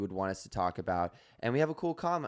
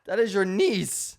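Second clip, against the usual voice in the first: talking to a pet; 9 semitones higher, 5 dB louder, slower than usual. Real, not acted. Baby talk to the cat.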